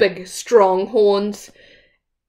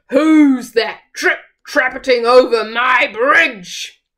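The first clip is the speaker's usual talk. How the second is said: loud troll voice; roaring troll; 4 semitones higher, 5 dB louder than usual. Acted. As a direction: demand who is on your bridge. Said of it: "roared the troll".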